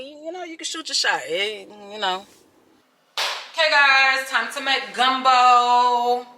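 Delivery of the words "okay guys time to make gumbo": cheery announcement. Real, not acted.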